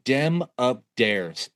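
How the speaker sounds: "Dem up dares" dragged out slowly in a thick Appalachian drawl; slow hillbilly drawl. Retold or imitated. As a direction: stretch each word like the roadside stranger, in an Appalachian drawl. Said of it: "that was legit how this man sounded".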